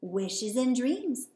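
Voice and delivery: very slow, knowing wizard singsong; sly, with a wink. Acted. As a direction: tease it out slowly, playfully. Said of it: "the wizard said with a wink".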